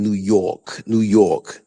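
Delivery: drawn-out "New York" with a broad AW; imitated New York accent. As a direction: stretch the vowel in "New York" like "yawk". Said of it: "the only word they'll get right".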